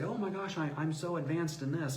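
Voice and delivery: high-pitched pretend boast; mock bragging. Speaker disclaiming any wish to show off, mock bragging. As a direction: put on a show-off's gush, starting high. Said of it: "toot my own horn".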